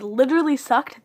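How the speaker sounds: Literally sucked said out loud with weight on Literally; emphatic repeat. Shown as a demonstration. Repeating her complaint to viewers, firm and emphatic. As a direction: punch Literally, state it plainly and firmly. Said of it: "Multiple times I've said".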